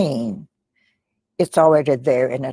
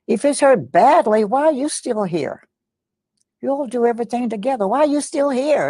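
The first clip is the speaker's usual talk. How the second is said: put-on higher, indignant demanding voice of a young son; chastising; 9 semitones higher, 4 dB louder than usual. Son demands why mother is still at home, high indignant chastising. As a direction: voice the boy scolding his mother, pitched up and rising. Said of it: "was chastising her".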